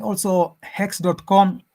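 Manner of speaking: slow and deliberate, spelling out "hex dot com". Real, not acted. Asked to say it again, repeats slowly and clearly. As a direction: repeat it slowly so they catch it. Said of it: "Say that again?".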